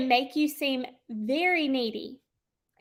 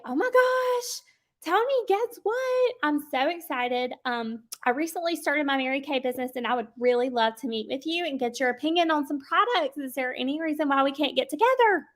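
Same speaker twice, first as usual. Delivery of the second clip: upbeat enthusiasm. Shown as a demonstration. Consultant inviting a contact named Tony to meet, cheerfully enthusiastic. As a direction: sound excited but stay controlled and friendly. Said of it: "That's enthusiastic without scaring people".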